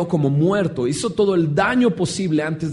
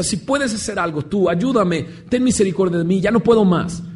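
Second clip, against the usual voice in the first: desperate plea; 3 semitones higher than usual. Acted. Desperate man hands his problem to the Lord, pleading. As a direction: build a desperate appeal for help. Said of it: "desesperado, le pone la pelota".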